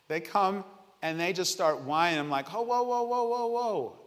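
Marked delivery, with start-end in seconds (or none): 2.5-4.0 high rapid string of whoas; mock-alarmed dad calling a halt; halting a whiner. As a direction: cut off the whining child up high. Father halts whining children.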